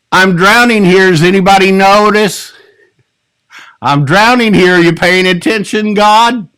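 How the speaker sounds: desperate cry for help. Acted. Pastor voicing Peter's panic as he sinks, pleading. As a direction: voice a sinking man begging God.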